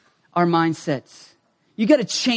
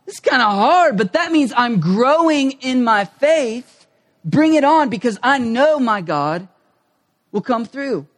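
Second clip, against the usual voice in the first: eager self-talk; 4 semitones higher than usual. Retold or imitated. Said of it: "you get in there and you go".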